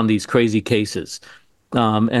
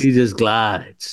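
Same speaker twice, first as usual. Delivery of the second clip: imitating Pacino; much slower than usual. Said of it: "the way he said it".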